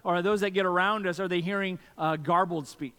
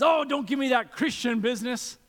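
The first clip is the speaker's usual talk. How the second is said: dismissive parent; 6 semitones higher, 4 dB louder than usual. Retold or imitated. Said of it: "And the guy says".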